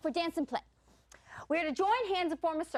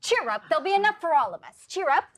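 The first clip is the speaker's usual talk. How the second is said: loud cheering up; 6 dB louder, faster than usual. Acted. Cheering a sad friend.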